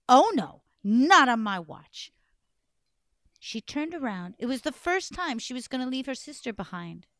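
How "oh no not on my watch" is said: determined. Acted. Tatterhood vows to act.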